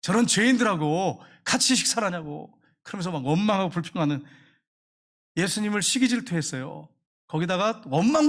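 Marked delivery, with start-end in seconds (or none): 0.0-2.6 grumbling complaint. Retold or imitated. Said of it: "원망 불평이 가득해가지고 제자들한테".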